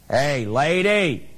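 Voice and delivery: slow, drawn-out parrot call; a parrot catcalling the lady on her way to work, slow and drawn out. Acted. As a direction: stretch it out like a cheeky parrot hailing her. Parrot calls a third time.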